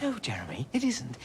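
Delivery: hushed, rising outrage; hushed rebuke to his friend; angry whisper. Real, not acted. Whispered argument in the bank.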